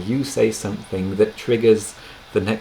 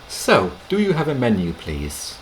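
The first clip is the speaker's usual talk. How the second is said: "So" said lightly up front, softening the ask; gentle polite restaurant ask; friendly polite request; 2 semitones higher than usual. Shown as a demonstration. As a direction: ease into the question with "So". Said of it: "you can say, like you would in English".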